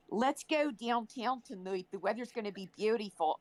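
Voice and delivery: lightly voiced mainline Philadelphia accent. Imitating a Philadelphia accent for friends. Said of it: "probably different Philadelphian accents".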